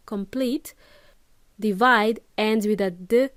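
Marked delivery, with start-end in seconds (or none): 0.1-0.7 "complete" ending on a released T, rising; final T. Shown as a demonstration. Teacher showing the end sound, "complete" with clear T. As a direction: let the T ring out in "complete". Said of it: "complete ends with a T sound".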